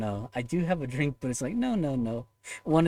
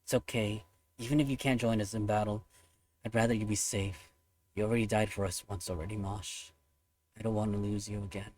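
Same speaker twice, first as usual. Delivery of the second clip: sincere; 2 semitones lower, 4 dB quieter than usual. Real, not acted. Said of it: "that's my, like, sincerest feelings towards Mosh".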